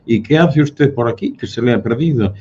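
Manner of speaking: más agudo y más fuerte, encarando al forastero; confrontación burlona. Retold or imitated. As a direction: imitando al vasco que increpa, en voz alta. Basque local interrogating the Catalan. (el vasco del bar increpa al catalán, agudo y fuerte)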